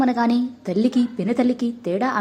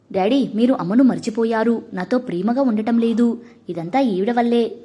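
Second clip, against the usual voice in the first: ordinary delivery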